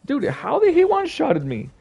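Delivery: loud, high, outraged complaint; furious at the one-shot; raging gamer. Real, not acted. Gamer just got one-shotted.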